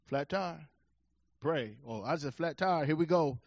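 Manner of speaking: hushed weary report. Retold or imitated. Texting family in distress.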